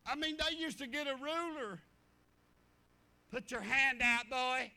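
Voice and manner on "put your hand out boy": loud, commanding teacher; barked classroom command; stern teacher order. Retold or imitated. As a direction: order the boy to hold out his hand.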